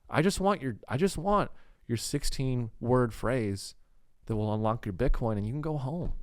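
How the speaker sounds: lightly voiced Midwest kidnapper, reasoning and coaxing; Todd. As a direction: bargain politely in a mild Midwest accent. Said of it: "He's, like, kinda Midwest".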